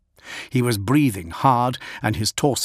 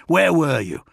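berating; 4 semitones higher than usual. Acted. Augustin berating the commander.

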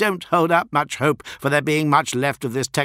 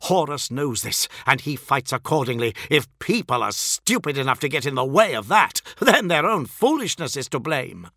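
loud, higher, scornful tirade; furious snarl; 6 semitones higher, 4 dB louder than usual. A narrator's reading. Fulgrim berates a foppish scribe, snarling. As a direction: tear into him with contempt. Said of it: "snarled Fulgrim".

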